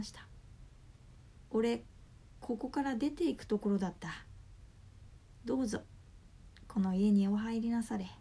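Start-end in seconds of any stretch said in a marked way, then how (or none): 1.5-8.1 put-on pleading old man. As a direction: beg him to come inside. Poverty god pleads hurriedly.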